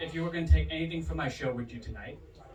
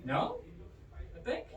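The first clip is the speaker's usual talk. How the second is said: high-pitched, dim-witted American voice; mock American, pitched way up; dumb American accent; 8 semitones higher, 6 dB quieter, slower than usual. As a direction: play up the dumbest American accent. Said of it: "dumbest American accent possible".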